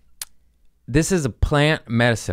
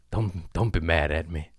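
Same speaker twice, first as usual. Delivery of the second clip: mock plea; 4 semitones lower, 6 dB quieter than usual. Pleading after apology.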